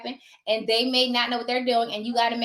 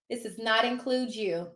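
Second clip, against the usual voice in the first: muttered aside; 3 semitones lower, 7 dB quieter than usual. Acted. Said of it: "Don't say that".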